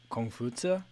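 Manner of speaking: Kongfutsu said kong-foo-tsuh, nasal kong. Shown as a demonstration. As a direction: say Kongfutsu with tsu ending. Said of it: "something along the lines of".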